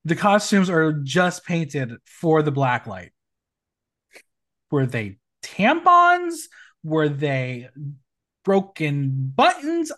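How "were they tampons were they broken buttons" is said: incredulous question. Real, not acted. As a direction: ask it in baffled disbelief. Mocking costume.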